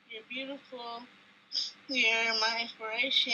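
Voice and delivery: sincere, fighting back tears; heartfelt. Real, not acted. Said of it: "Let me say this without crying again".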